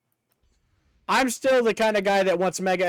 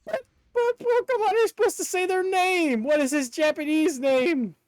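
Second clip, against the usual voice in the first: excited question; 10 semitones higher than usual. Real, not acted. Excited questions about Pokemon names.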